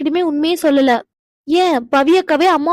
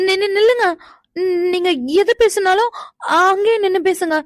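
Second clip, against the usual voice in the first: nervous stammer; 3 semitones higher than usual. Acted. Nervous girl stops him approaching.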